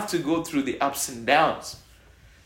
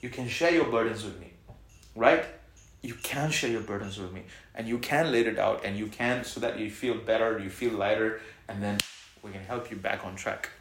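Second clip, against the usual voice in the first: softer, reassuring tone; gentle; 4 semitones lower, 4 dB quieter than usual. Real, not acted. Pastor comforting troubled members, soft reassurance. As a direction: ease off and comfort them.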